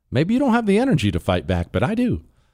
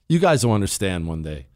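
put-on grumpy old man; 8 semitones lower than usual. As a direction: grumble it like a crotchety old man. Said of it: "think I just sound like a grumpy old man".

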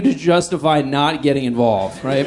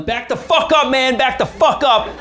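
panicky yelled warning; 9 semitones higher than usual. Retold or imitated. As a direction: bark it scared but trying to sound tough. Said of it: "I start yelling".

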